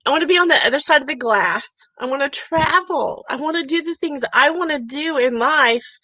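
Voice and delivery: fighting tears, voice lifting on the wish; holding back tears. Retold or imitated. Telling listeners her old longing, near tears. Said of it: "I'm trying not to cry".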